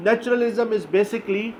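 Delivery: Naturalism is basically drawn out very slowly; slow dictation. Shown as a demonstration. Teacher defining naturalism to students, very slow. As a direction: spell it out for notes.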